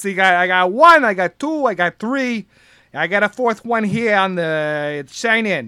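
lightly voiced coach, counting deliberately; slow down on the last count; big coach accent. Guard checking the sign-in sheet, light coach accent. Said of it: "he says".

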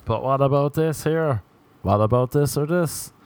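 a whiny mocking voice for the arguer; lightly put-on nagging voice; mock whataboutist. Comic mimics an online arguer, lightly whiny. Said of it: "classic white racism move".

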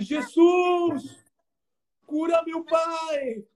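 strong cry to Jesus. Retold or imitated. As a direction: call out to Jesus with all your force. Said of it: "e gritou forte".

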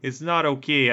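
light mock Chicago-Canadian accent; pseudo Chicago-Canadian accent. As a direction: put on a loose Chicago-slash-Canadian twang. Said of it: "resorting to this weird pseudo Chicago slash".

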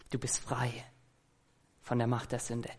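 soft unvoiced whisper, tender and intimate; whispered promise. Shown as a demonstration. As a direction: breathe the promise to the listener. Gottes Zusage leise zugesprochen. (Gottes Zusage geflüstert)

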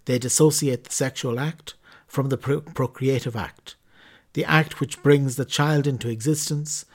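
measured, formal reading of a church document. Acted. Podcast host reading the Catechism to listeners, formal reading. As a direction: read it out like an official text, evenly paced. Reads Catechism text aloud.

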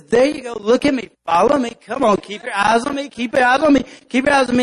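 a touch of a coaxing guide; guiding ant. Acted. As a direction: lead the lost ant along. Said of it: "the real nerdy looking ant".

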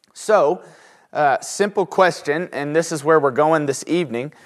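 talking while chewing gum; words round a wad of gum. Real, not acted. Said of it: "Can't talk with gum in my mouth".

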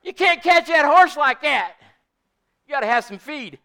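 loud, high-pitched retold telling-off; shouted scolding. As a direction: holler advice back across a pasture. Shouted retort continues in retold quarrel.

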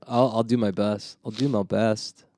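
understated put-on Aussie accent; Australian accent. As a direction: play along in mock Australian. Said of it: "You're only allowed to do that".

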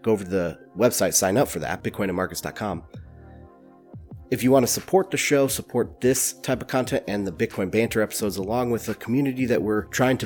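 blocked nose from a cold; stuffy nose. Real, not acted. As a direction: talk through a stuffy head cold. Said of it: "so excuse the stuffy voice".

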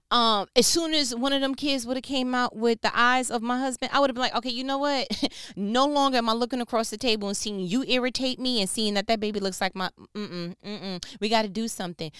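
loud, high-pitched exasperated retell; high and loud mock exasperation; animated retelling. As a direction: play the fed-up wife blowing up. Retelling how she'd react as Hannah.

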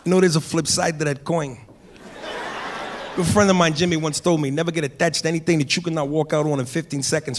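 lightly voiced De Niro, cool and measured; a hint of De Niro's thief in Heat; Robert De Niro impression. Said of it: "De Niro comes back".

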